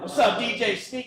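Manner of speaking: "Sneak" hyped up high, DJ-style; emphasis on Sneak. Shown as a demonstration. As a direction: greet him like a hype-man, lean on "D J Sneak". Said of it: "without putting emphasis on it".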